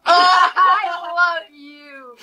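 loud, slow, high laughing cry; ecstatic shout. Acted. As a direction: scream it out with delight. Overjoyed girl shouting.

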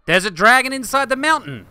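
high, loud exclaim of surprise; excited shout. Real, not acted. To viewers about the buried dragon, loud and high. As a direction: blurt it out, amazed.

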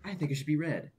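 odd character voice. Pretend. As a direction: switch to another personality. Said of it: "I see I have a whole set of characters now".

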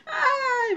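high laughing squeal ai; a squeaky little laugh cry. Real, not acted.

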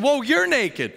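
high, loud startled whoa, slowing; mock shock. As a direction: gasp it out in surprise. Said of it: "She said".

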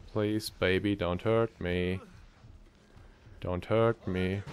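soft, slow begging under the breath; whispering while hiding. Real, not acted. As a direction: plead quietly so it won't hear.

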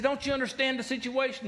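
high-pitched imitated exasperation; aggravated disbelief. Frantic castaway to his unworried companion, high and aggravated. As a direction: press him in mock frantic disbelief. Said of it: "he gets so aggravated".

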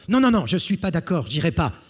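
high, loud, fast whiny no; stubborn refusal. Acted. Jean to the brigands, fast whiny refusal. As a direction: refuse like a sulking child.

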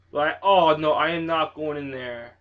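loud spooked refusal; scared refusal. Real, not acted. Refuses to enter scary house.

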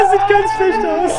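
laughing through the quote. Retold or imitated. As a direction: giggle out the words, loud and slow. Repeating the psychic's line, laughing.

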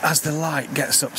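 breathless from scrambling; out of breath. Real, not acted. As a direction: talk while catching your breath. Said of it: "sorry about my out of breath".

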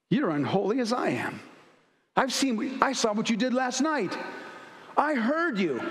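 a demon sneering and accusing, slowing on the last lines; taunting demon. Acted. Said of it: "I know who you are".

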